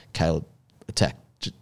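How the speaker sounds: low, hushed instruction to a crew member; like a boss quietly setting up a test; imitating Paul's low quiet voice. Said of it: "was like".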